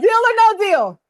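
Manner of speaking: energetic, confident deal or no deal; confident ask. Shown as a demonstration. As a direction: throw the question out boldly. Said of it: "Do you see the difference?".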